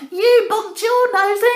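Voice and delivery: high, loud laughing taunt; singsong mockery. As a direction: sing it out to tease. Alfie mocking.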